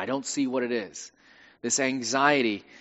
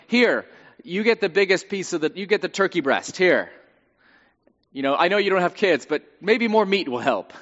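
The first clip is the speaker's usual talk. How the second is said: well-meaning husband; 3 semitones higher than usual. Acted. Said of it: "He means well".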